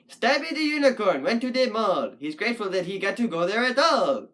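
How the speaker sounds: bouncy sing-song rhyme recital; Doctor Seuss-style verse. Shown as a demonstration. Puppet poet trying out a couplet, sing-song verse. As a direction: recite it in a regular nursery-rhyme beat.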